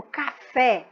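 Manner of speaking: "café" with its final syllable stressed; stress on last syllable. Shown as a demonstration. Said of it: "mais forte fica". ("café" devagar, com a última sílaba forte)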